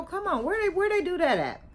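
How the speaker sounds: high, disbelieving come on; incredulous. Real, not acted. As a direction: ask it in total disbelief. Incredulous at ex's behaviour.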